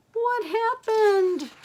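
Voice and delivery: very high, slow shocked question. Acted. Grandma asking the kids in shock what happened. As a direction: gasp out the question in alarm. Ball just popped.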